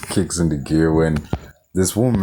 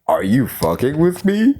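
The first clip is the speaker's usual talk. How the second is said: raised pitch, rising at the end; mock outburst; 5 semitones higher than usual. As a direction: quote her question in mocking disbelief. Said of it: "she yells out".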